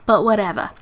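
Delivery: slurping water while talking; words between sips from a straw; sipping through a straw. Real, not acted. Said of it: "I'm, like, slurping my water in your ears".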